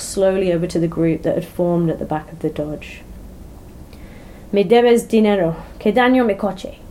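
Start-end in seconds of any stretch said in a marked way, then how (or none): 4.5-6.8 loud Spanish demand. Acted. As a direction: lay down the demand, loud and blunt. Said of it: "David demanded as he walked over".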